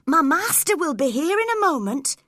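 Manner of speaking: warning. A narrator's reading. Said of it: "I warned them".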